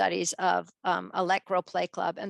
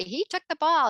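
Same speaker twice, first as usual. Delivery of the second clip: put-on tattling kid; 5 semitones higher, 3 dB louder than usual. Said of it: "they come to you and they say".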